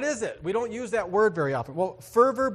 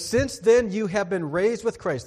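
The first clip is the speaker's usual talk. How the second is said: emphatic scripture reading; 4 semitones higher, 6 dB louder than usual. Real, not acted.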